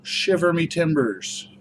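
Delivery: slow, high pirate call. Pretend. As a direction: draw out Shiver Me Timbers like a pirate. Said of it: "I'm gonna use the pirate voice".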